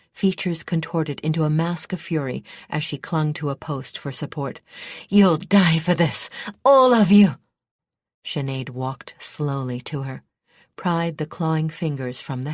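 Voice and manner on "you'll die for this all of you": loud, rising to a high shout; enraged princess cursing her enemies; furious threat. A narrator's reading. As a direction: curse them all with fury. Princess cursing them in fury.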